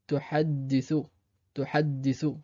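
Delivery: tuhaddithu avec le dd tenu; tuhaddithu, doubler le d; doubled d. Shown as a demonstration. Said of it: "Ici, sur le dal". (tuhaddithu, d double appuyé)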